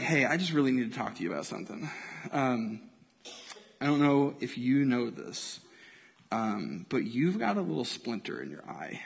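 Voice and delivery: mock-tender, quiet confession; fake gentle concern. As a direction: break the news delicately, overly careful. Hypocrite gently confronting a friend.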